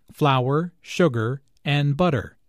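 Flour, sugar, and butter each stressed with short pauses; list with pauses. Shown as a demonstration. Teacher reads a shopping list, pausing between items. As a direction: say each item apart and stressed. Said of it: "short pauses between each item".

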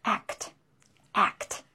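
a soft, fast act with a clipped kt; quick fluent act. Shown as a demonstration. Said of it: "You have to pronounce it quickly, fluently".

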